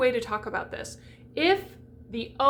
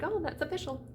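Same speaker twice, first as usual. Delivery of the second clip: mock English reading; 5 semitones higher, 6 dB quieter than usual. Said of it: "be like".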